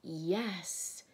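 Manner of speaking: firm, drawn-out lion's answer; great voice. A narrator's reading. Aslan speaks behind the girls' backs, great voice. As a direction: sound it out with weight. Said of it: "said a great voice".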